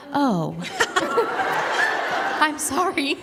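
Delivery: high, giggling sorry through laughter; embarrassed giggle mid-apology; laughing apology. Retold or imitated. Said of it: "I'm like".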